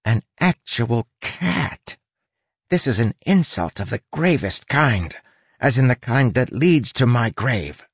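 light, high little rat voice; squeaky rat sidekick speaking; small rat voice. Acted. Rat character Huck voiced.

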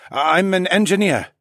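high, hesitant French-tinged voice; cautious man answering slowly; slow, wary engineer. A narrator's reading. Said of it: "he said slowly".

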